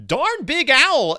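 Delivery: mock astonishment. Real, not acted. Seeing huge owl in book.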